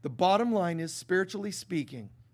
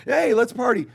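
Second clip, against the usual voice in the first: mock party call; 4 semitones higher, 10 dB louder than usual.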